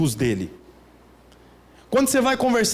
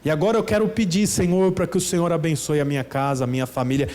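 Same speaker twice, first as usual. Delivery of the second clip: mock formal prayer; 3 semitones lower than usual. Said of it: "com a mão assim".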